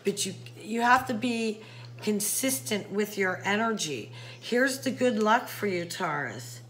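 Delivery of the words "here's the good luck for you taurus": ominous, grave reading of good luck, dropping low on Taurus; deep concerning voice. Shown as a demonstration. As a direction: say it like a dark warning. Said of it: "I say that in that deep, concerning voice".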